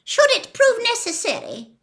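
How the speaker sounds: high, urgent woman's voice, pleading; Narcissa's whispered plea. A narrator's reading. Narcissa pleads with Snape for her son, high and urgent. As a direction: press Snape with hushed urgency. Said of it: "whispered Narcissa".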